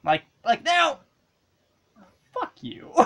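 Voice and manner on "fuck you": whispered. Real, not acted. Cursing at game.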